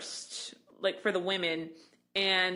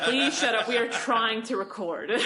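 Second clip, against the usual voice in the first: mock exasperation, louder on the plea; joking telling-off; 3 semitones higher, 3 dB louder than usual. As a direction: jokingly scold a chatty friend. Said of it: "I said it jokingly".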